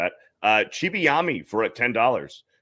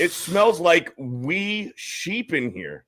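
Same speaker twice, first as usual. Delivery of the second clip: put-on slow, drawn-out Scottish accent; 5 semitones higher, much slower than usual. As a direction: lay on a thick Scottish brogue. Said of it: "With a Scottish accent, it sounds like".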